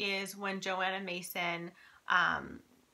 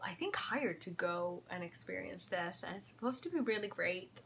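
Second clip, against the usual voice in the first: whispering; 6 dB quieter than usual. Real, not acted. Quiet aside while partner listens.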